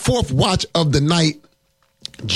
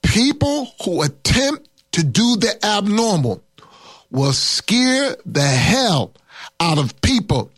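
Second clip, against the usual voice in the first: measured, phrase by phrase with pauses; slow right down so they can write it; slow dictation; 2 semitones higher, slower than usual. Shown as a demonstration. Preacher repeats his point for note-takers, slow and deliberate. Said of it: "I want you to write this thing down".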